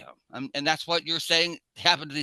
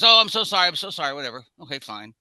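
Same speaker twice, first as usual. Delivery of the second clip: mock dismissive apology; 6 dB louder, faster than usual. Other driver brushing off the bumped father, mock dismissive. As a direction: toss off a fake apology, bursting out then fading. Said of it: "And I goes".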